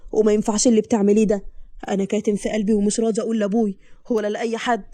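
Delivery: a hint of a husband holding back his complaint; husband's voice. Narrator voices husband Badr.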